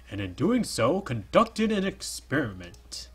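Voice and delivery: a hint of a regal character, slow; lightly put-on royal read; bad royalty voice. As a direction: drag it out like a mild noble. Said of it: "That's probably a really bad voice".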